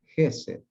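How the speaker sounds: gesed repetido con el golpe de voz en GE; acento en la primera sílaba. Shown as a demonstration. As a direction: carga GE y deja caer sed al decir gesed. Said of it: "esta sílaba va acentuada". (gesed como palabra llana, acentuada en GE)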